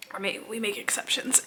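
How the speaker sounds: soft whisper. Real, not acted. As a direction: whisper so the cat can sleep. Cat falls asleep nearby.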